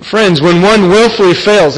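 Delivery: slow, with WILLFULLY given deliberate weight; stress on willfully. Real, not acted. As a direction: lean on the word "willfully". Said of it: "I emphasize that word willfully".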